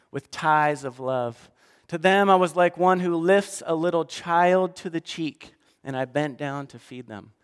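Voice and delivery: reads God's tender words, slowing on love; scripture read with feeling; dramatic scripture reading. Acted. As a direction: speak as God to a wayward child.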